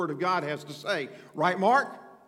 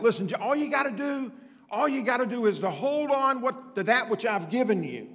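emphatic preaching; 5 semitones higher than usual. Real, not acted. Preacher building to emphatic point.

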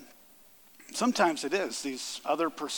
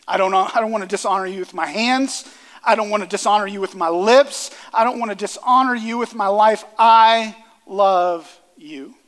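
loud pleading prayer; 4 semitones higher, 10 dB louder than usual. Acted. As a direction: pour it out to God, loud and urgent. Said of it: "is a prayer of saying".

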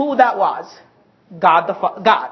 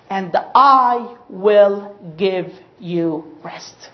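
slow tender promise; 3 semitones lower, much slower than usual. Acted. Quoting Jesus slowly, hushed.

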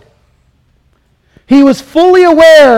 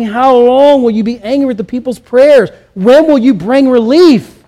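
steady, plain reading of the plea; evenly paced reading; scripture reading at normal pace; 2 semitones higher than usual. Acted. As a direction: read the verse at an even pace. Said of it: "the psalmist is asking".

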